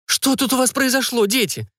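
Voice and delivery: anxious mother, pitched high; worried. A narrator's reading. Mother worried on seeing her children, high anxious voice. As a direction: fret over the children in a high voice. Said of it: "обеспокоенно всплеснула руками женщина".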